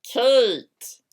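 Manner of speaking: loud call after someone. A narrator's reading. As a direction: yell her name. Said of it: "I yelled as I ran after her".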